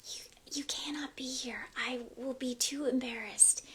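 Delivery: soft ASMR whisper, breath only. Real, not acted. Streamer apologising to viewers, whispering. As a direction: hush it like an ASMR video. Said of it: "why I'm speaking quietly".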